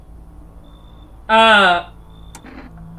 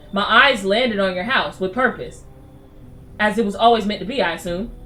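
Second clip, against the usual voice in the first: put-on old lady voice. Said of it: "an old lady like me".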